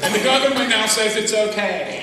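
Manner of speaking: very loud preaching, big and driven; preaching shout. Acted. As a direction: shout it out to the church. Preaching at full force.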